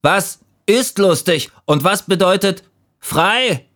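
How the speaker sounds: high, puzzled little leaf; questioning leaf. A narrator's reading. Doubtful leaf questions the fallen leaves, high puzzled voice. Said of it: "fragte es".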